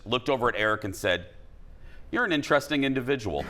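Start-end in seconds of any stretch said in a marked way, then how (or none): 2.1-3.4 deadpan imitation of a friend; quick, matter-of-fact mock assessment; straight-faced. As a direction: deliver the verdict with a straight face. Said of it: "Maddie, with a straight face".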